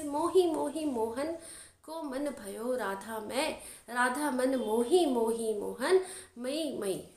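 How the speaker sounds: slow, drawn-out verse reading; verse recitation. Acted. Teacher reciting an example of विप्सा, slow verse recitation. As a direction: recite the line with lengthened vowels.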